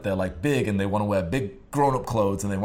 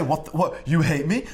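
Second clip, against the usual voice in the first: raised-pitch mock hurt disbelief; mock offended; 4 semitones higher, 3 dB louder than usual. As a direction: act lightly affronted, stumbling over the words. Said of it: "you wouldn't get offended".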